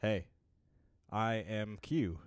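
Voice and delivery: slow, stiff robotic announcer; robot radio announcer. Shown as a demonstration. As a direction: read it like a deadpan radio robot. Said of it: "the robot d-, radio announcer voice".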